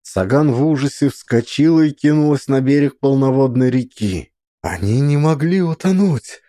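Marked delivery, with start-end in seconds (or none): 4.6-6.4 put-on a mother losing her children, screaming in terror; hysterical cry. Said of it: "в истерике закричала она".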